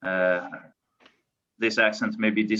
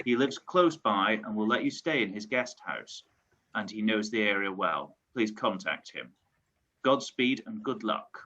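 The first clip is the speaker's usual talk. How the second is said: measured reading of a mission briefing; letter read aloud; 4 dB quieter than usual. Acted. Player reading the mission letter to the party, measured read-aloud. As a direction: read it out as a formal letter, phrase by phrase.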